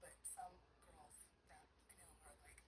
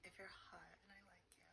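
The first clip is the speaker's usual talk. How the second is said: Paris Hilton voice. Shown as a demonstration. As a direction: purr it slowly like Paris Hilton. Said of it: "I have two voices".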